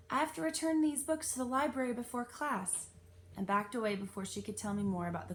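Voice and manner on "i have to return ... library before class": hasty excuse. A narrator's reading. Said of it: "books like a shield and said".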